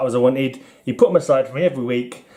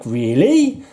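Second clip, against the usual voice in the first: mock excited kid; much slower than usual. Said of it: "I don't know if I said it in that voice".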